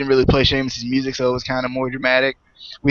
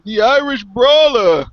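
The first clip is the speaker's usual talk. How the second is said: hammed-up Irish brawler, higher pitch; bad Irish accent; 8 semitones higher, slower than usual. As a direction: stretch it out in a badly faked Irish lilt. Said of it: "That's a really bad Irish accent".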